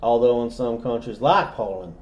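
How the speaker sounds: lightly southern narration; genteel Southern storyteller; southern accent. Pretend. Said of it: "that same accent".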